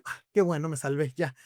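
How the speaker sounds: ordinary delivery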